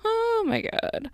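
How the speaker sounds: very high, drawn-out laughed words; high giggly disbelief; incredulous laughing. Real, not acted. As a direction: squeal it slowly through laughter. Laughing before telling nasty comment.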